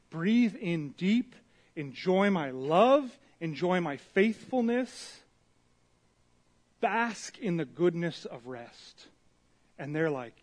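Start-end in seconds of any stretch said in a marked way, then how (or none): 0.1-9.1 gentle God voice. Retold or imitated. God voiced giving the Sabbath.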